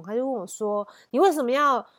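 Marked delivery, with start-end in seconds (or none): 1.1-1.8 a retold fierce demand, a touch louder; mock-fierce wife on the phone. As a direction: imitate the wife's sharp accusation, mildly. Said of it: "就变得非常凶".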